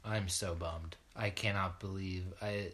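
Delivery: understated mock disappointment; dry, drawn-out sarcasm; sarcastic. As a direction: feign being upset, dryly. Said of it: "Is this sarcasm?".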